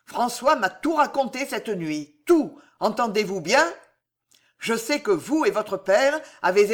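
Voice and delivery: plus fort, menaçant et dur; accuse-la de toute ta hauteur; colère du père. Acted. Le père furieux accuse Jeanne. (le connétable furieux accuse sa belle-fille)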